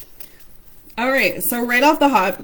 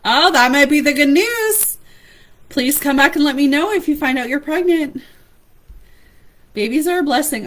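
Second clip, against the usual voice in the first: excited; 5 semitones higher, 5 dB louder than usual. Real, not acted. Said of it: "Oh, I'm so excited".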